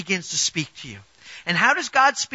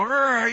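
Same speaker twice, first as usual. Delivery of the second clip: short imitated rumbling rrr; stomach growl; 3 semitones higher than usual. Preacher mimicking a growling stomach, short mock growl. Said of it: "your stomach starts to go".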